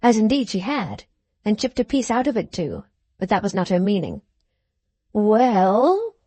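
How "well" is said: mildly anxious, pressing question; a touch of eager alarm; anxious cry. A narrator's reading. Brass pressing his sister to explain, anxiously. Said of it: "cried Brass anxiously".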